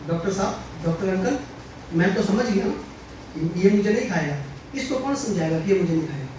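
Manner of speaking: gently and innocently, slowing down to explain; lovingly. Retold or imitated. The boy gently tells the doctor uncle, lightly sweet. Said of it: "बच्चा बड़े प्यार से कहता है".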